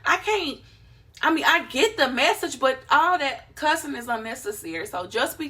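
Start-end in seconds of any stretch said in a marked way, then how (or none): 0.0-0.6 annoyed viewer. Retold or imitated. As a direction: sigh it out like a tired viewer. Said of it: "but they like".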